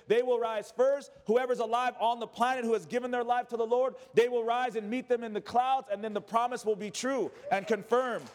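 driving, unbroken preaching run; impassioned preaching. Real, not acted. Preacher assuring the church of the promise, impassioned. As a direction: preach it onward with rising conviction.

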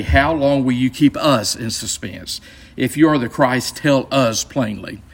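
"us" given extra weight each time; slow reading that leans on both "us"; stress on US. Shown as a demonstration. Teacher quoting religious leaders to Jesus, stress on "us". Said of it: "need to emphasize the word us here".

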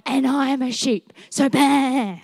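preacher's playful comeback to the enemy; cheeky comeback. Retold or imitated. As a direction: tease it back like a proud little kid. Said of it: "That's my favourite comeback".

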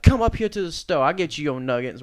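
mock-furious woman, high and loud; acted-out irate manager challenge; losing her mind. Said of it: "she fucking lost her mind".

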